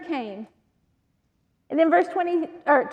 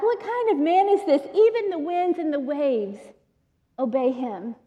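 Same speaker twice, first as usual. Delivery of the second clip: amazed. Acted. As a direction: marvel at who this man is. Amazed men in the boat.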